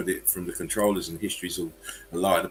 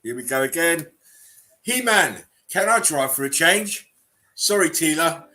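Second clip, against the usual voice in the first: higher, louder mock He-Man read; hammed-up cartoon voices; 7 semitones higher, 6 dB louder than usual. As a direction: camp it up like the cartoon. Reading meme dialogue aloud.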